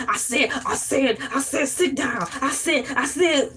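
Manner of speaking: lightly mimicked cartoon rooster stammer; Foghorn Leghorn. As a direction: imitate a blustering Southern rooster. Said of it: "Foghorn Leghorn be like".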